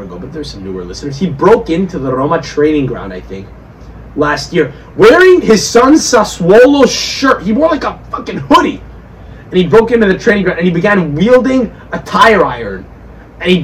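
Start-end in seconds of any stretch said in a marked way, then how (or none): 5.0-8.8 incredulous. Real, not acted. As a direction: savour the absurd detail. Incredulous story detail.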